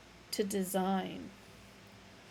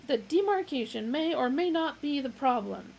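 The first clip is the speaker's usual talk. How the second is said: yelling; 6 semitones higher, 5 dB louder than usual. Acted. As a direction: yell the demand. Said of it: "yelled Vroomfondle".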